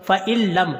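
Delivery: फ़इल्लम with the N dropped into a doubled L; joined doubled laam. Shown as a demonstration. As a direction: go straight into the L of फ़इल्लम. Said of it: "लाम के साथ मिलाना है". (फ़इल्लम में नून छोड़कर लाम पर शद)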